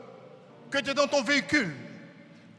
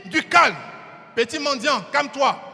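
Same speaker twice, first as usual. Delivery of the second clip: scolding crowd. Acted. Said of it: "les gens vont lui dire".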